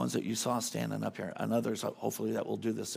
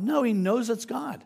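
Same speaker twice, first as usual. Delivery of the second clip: much higher and louder, slow and certain; emphatic answer; 11 semitones higher, 5 dB louder than usual. Real, not acted. Preaching to the congregation, emphatic and slow. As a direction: slam the answer home, slowly. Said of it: "preacher answers his own question".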